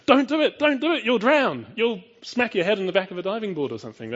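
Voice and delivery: high, loud panicky shout of a scared parent; panicking parent. Pretend. Parent in the pool screaming at child on the board, panicked high shout. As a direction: yell it like a parent terrified for their child.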